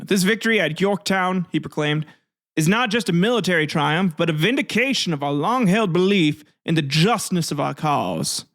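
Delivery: drawling Southern orator proclaiming to a crowd; southern accent. Acted. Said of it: "southern, like, accent there".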